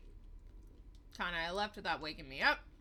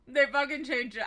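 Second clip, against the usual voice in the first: loud outrage; 5 semitones higher, 9 dB louder than usual. Real, not acted. Outrage at changed text.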